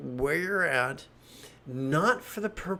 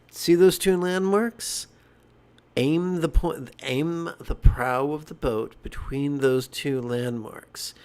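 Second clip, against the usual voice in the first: louder, firm instructions over a motor; stepfather's instructions; 4 dB louder than usual. Retold or imitated. Stepfather telling the boy how to steer, louder and firm. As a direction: call out firm steering orders.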